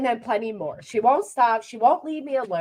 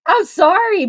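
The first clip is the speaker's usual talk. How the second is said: laughing apology; 9 semitones higher, 8 dB louder than usual. Real, not acted. Laughing after hearing the growl clip.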